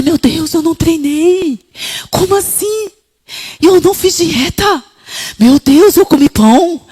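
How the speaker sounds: panicking over the missed workout and bread; alarmed realization. Retold or imitated. Woman realizing she broke her diet, alarmed.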